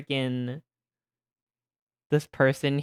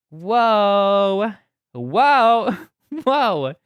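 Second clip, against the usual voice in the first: high, loud amazed whoa; excited whoa; 7 semitones higher, 9 dB louder, much slower than usual. Real, not acted. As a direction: gasp in delight. Continued hype reaction.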